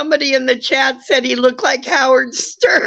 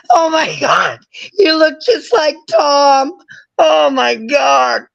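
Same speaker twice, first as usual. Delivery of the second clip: laughing hard; 5 semitones higher than usual. Real, not acted.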